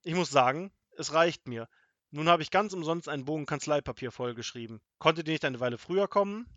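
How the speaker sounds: loud, annoyed officer's scolding; stern official. A narrator's reading. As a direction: scold them with official indignation. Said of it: "machte ein strenges Amtsgesicht".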